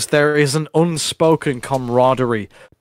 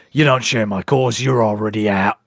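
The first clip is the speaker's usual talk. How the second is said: lightly voiced impression, dropping lower at the end; Hemi; 4 semitones lower than usual. Host quoting Hemi rejecting Chad, in a lightly mimicked voice. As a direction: imitate him giving a curt dismissal. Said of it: "Who likes my Hemi impression".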